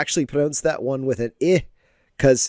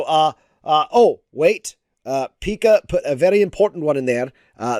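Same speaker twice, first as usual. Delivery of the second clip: ordinary talk, nothing marked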